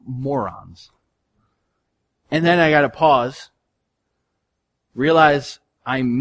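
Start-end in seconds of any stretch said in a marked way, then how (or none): 0.1-0.9 quiet dismissive scoff, lightly voiced; a hint of a dismissive judge; judgmental scoff. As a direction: toss it off with scorn. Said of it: "super judgmental and be like".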